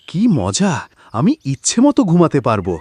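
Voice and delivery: high gleeful cry, then eager; delighted. Acted. Lazy farmer thrilled he can sleep whenever he likes, high and gleeful. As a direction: squeal with joy at the thought of sleeping.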